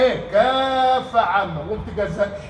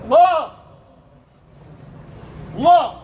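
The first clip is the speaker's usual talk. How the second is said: ecstatic cry; 5 semitones higher, 6 dB louder than usual. Real, not acted. Preacher's ecstatic exclamation.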